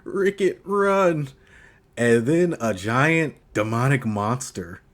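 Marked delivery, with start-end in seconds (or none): 0.1-1.3 high, strained mock plea; hammed-up dying man's warning; dying warning, imitated. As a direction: act out a last desperate warning. Voices wounded man warning Rickett.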